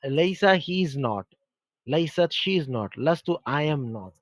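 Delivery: slow, each word laid out; slow teaching recital. Shown as a demonstration. Teacher giving each form of लईसा with its meaning. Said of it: "ये लईसा जो है ना".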